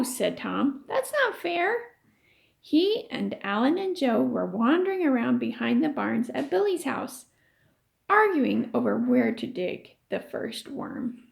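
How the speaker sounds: lively read-aloud voice for the class; story reading. A narrator's reading. Teacher reading a chapter to her class, storytelling voice.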